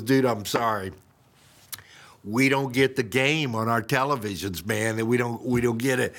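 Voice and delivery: low, apologetic waiter imitation; acted-out regretful server; sheepish waiter. Waiter breaks bad news.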